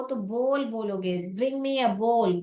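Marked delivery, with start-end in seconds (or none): 1.4-2.4 slow, careful Bring me a bowl with bowl said as bol; slow model sentence. Shown as a demonstration. Teacher modelling the sentence for the class. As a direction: say it slowly for learners to copy. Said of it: "ऐसा बोलना होता है आपको".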